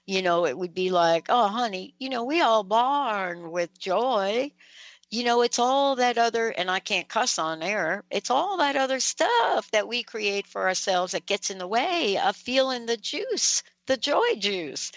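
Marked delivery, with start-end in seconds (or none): 1.3-6.5 a light Southern drawl, imitating mom; lightly voiced Southern mother, affectionate; a hint of a Southern mom's drawl. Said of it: "in her Southern drawl". 8.1-14.9 a light Southern drawl, imitating mom; lightly voiced Southern mother, affectionate; a hint of a Southern mom's drawl. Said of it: "in her Southern drawl".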